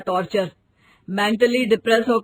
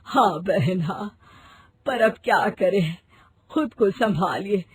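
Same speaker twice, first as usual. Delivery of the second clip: 1 consoling; 3 semitones lower, 3 dB quieter than usual. Acted. Consoling mourner.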